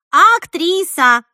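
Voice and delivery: declaring "Актриса!" slow and loud with pride; emphatic insistence. Acted. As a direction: stretch "Актриса!" slowly, loud and proud. Repeats word emphatically.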